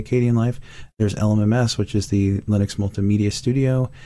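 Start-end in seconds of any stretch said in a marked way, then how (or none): 0.0-0.6 Kdenlive said as "kay-dee-en-live"; preferred pronunciation. Shown as a demonstration. Host giving their own way to say it, Kdenlive as kay-dee-en-live. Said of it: "I say Kdenlive".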